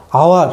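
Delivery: আওয়ার with no h sound at the start; silent H. Shown as a demonstration. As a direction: begin "আওয়ার" straight on the vowel. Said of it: "এইচ এর উচ্চারণ".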